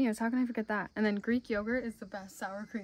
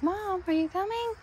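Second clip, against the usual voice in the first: voicing the cat; 9 semitones higher than usual. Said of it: "He's like".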